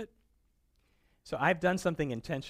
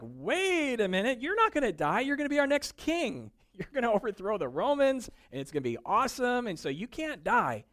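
higher, bright-eyed crowd voice, half laughing; excited crowd; 7 semitones higher, 3 dB louder than usual. Retold or imitated. Crowd pleading with Jesus, higher and excited. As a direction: play the eager followers, hopeful. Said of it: "everybody in the crowd is like".

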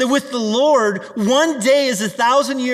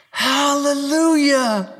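drawn-out hallelujah; 3 semitones higher, much slower than usual. Acted. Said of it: "crying out".

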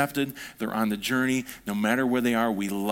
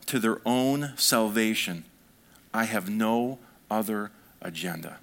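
emphatic scripture reading. A narrator's reading. Preacher re-reading Paul's mission so listeners really hear it, emphatic. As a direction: let each phrase land, settling toward the end.

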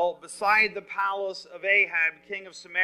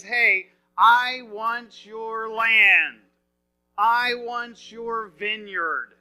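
slow, drawn-out demand; lightly acted king laying claim to land; 4 dB louder, much slower than usual.

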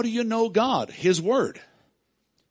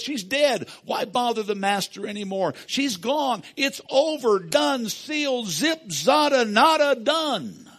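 higher, brushing it off as hopeless; dismissive crowd voice; 4 semitones higher than usual. Retold or imitated. People telling Jairus not to bother Jesus, higher and dismissive. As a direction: rattle off that it's all over, higher and mocking.

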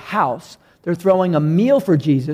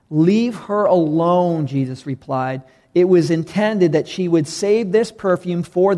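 measured Bible reading voice; scripture reading. Acted. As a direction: read the passage with steady weight. Pastor reads scripture passage aloud.

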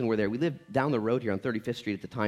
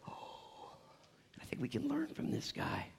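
gasped whisper; 12 semitones higher, 13 dB quieter, much slower than usual. Real, not acted. Gasped aside after the quote.

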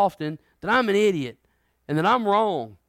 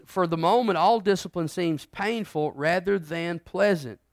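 scripture reading. Shown as a demonstration. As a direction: lean into each word of the verse. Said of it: "go back over eleven again".

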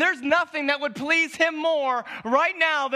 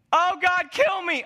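Jonah's plea; 5 semitones higher than usual. Acted. Preacher voices Jonah's despair.

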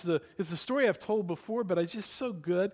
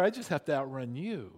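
dropped, lower matter-of-fact reply; deadpan punchline; 4 semitones lower than usual. Retold or imitated. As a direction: land the joke coolly on a low note. Joke punchline, deadpan aside.

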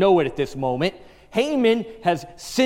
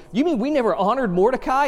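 incredulous king; 7 semitones higher, faster than usual. Retold or imitated. King's incredulous question.

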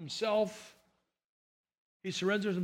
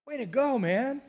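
surprised whoa; 6 dB quieter, slower than usual. Retold or imitated. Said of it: "I thought".

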